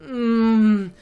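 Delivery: drawn-out "mm" moan; acted moan. Reading the kiss scene to viewers, acted moan. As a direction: hum out a mock moan. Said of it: "do you like my moaning?".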